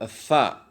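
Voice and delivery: "sa" with tongue tip close against the teeth; letter pronunciation demo. Shown as a demonstration. Teacher shows the letter, "sa" with tongue at the teeth. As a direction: say "sa" as a lisped th sound. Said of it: "pada huruf sa dibaca".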